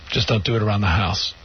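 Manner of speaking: low-pitched, understated tough dad; tough-guy father. Retold or imitated. Father setting a house rule for his son, low and tough. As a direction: lay down the rule low and offhand, imitating dad. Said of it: "he's like a tough guy".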